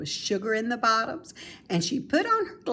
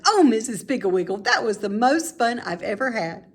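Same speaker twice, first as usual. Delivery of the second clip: put-on louder, fast, thrilled child voice; delighted girl; 3 semitones higher, 4 dB louder than usual. Mary Lou thanking Mrs Piggle Wiggle for the fun, delighted. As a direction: gush with delight.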